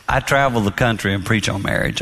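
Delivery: normal talking voice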